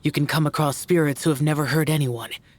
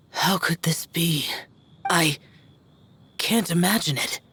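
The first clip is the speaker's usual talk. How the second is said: whisper; 3 semitones higher than usual. Real, not acted. Shocked at news, unvoiced.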